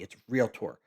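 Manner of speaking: realtor said as "real-tor", like real tour; correct pronunciation. Shown as a demonstration. Correcting a colleague, saying realtor as real tour. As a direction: stress real, then tor. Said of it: "Just like you're going on a real tour".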